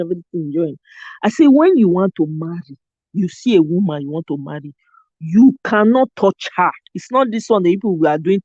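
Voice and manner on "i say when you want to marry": Nigerian accent, heavy intonation; Naija accent. Shown as a demonstration. Retelling her talk on the live, Naija accent. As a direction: lean into the Naija tune. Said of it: "with all the Naija accent, intonation".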